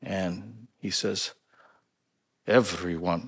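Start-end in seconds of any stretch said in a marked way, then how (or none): 2.5-3.2 put-on Polish accent. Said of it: "this is my Polish accent".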